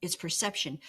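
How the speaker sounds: gentle self-reassurance; calm inner voice. Pretend. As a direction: say it to yourself, calmly accepting. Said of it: "more strength to say".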